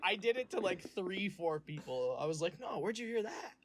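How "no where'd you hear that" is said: high, innocent mock question; feigned ignorance. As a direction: act clueless, voice lifting sharply at the end. Replays feigned ignorance to customers.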